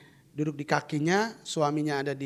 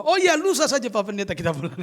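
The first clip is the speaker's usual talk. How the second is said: high, laughing correction; patient laughing as she changes the day; 5 semitones higher, 6 dB louder than usual. Retold or imitated. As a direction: laugh while you change the plan. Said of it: "dia juga robah".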